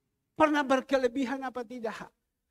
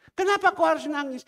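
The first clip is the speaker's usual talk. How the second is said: raised voice, puzzled; why are you crying, louder; asking loudly; 6 semitones higher, 7 dB louder than usual. Retold or imitated. Repeats question to widow. (pendeta bertanya keras pada janda yang menangis)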